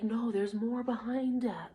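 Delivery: soft unvoiced whisper of an inner child. Inner fairy whispering encouragement, whispered. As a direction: breathe it like a secret. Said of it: "it's like a whisper".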